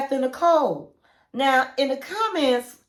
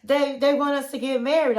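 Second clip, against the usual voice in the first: happy; 3 semitones higher than usual. Retold or imitated. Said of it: "she was so happy".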